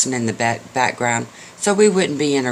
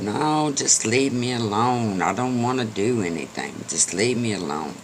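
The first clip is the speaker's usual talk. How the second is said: weary horse; 3 dB quieter than usual. Acted. Horse refuses mule's help.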